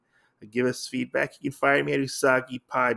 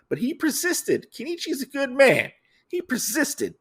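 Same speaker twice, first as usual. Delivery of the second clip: lightly voiced Mariko; 13 semitones higher than usual.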